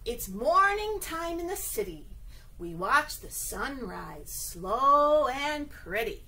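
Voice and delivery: storybook reading. Acted. Reads rhyming picture book aloud.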